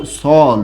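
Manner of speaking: সল, short and clipped to one syllable; সল, one open syllable; dialect pronunciation. Shown as a demonstration. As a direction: say সল as a regional form of ছেলে. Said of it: "এই শব্দটাকে বলা হয়".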